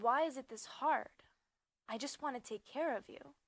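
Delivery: earnest, frustrated appeal; impassioned pleading. Acted. Lover pleads in the poem.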